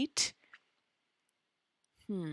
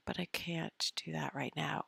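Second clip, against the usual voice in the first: whisper; 6 dB quieter than usual. Real, not acted. Whisper aside.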